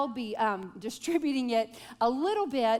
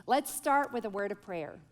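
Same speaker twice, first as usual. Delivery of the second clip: ordinary talk, nothing marked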